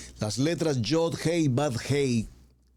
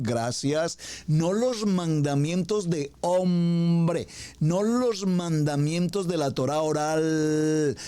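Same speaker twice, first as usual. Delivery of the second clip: fervent preaching; 3 semitones higher than usual. Acted. Pastor pressing the congregation about whose commandments, fervent. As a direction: drive each line home from the pulpit.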